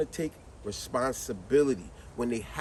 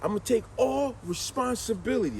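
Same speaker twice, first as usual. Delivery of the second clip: imitating the promise; 5 semitones higher than usual. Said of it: "That's what he told me".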